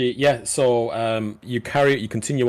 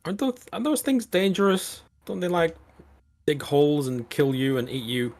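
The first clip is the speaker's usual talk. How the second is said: pitched well up, anxious questions; high worried voice; 7 semitones higher than usual. Acted. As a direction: sound scared and high. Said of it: "Sidra says".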